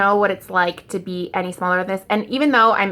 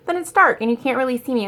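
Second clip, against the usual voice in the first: quicker, higher, "dark" stressed; so what; 5 semitones higher, 3 dB louder, faster than usual. Shown as a demonstration. Telling viewers dark videos are fine, shrugging. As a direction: brush it off, who cares.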